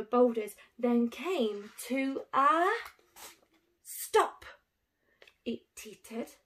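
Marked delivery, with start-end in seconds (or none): 5.4-6.3 whisper. A narrator's reading. Suspenseful narration, whispered.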